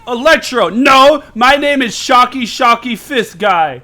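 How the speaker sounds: loud, slow, proud declaration; hammed-up villain roar; mock villain boast. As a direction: announce the silly name grandly. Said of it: "It's like".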